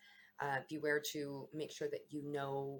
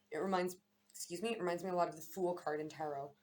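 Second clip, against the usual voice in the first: talking through hiccups; interrupted by hiccups; 3 semitones higher than usual. Real, not acted. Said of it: "Sorry, I got the hiccups".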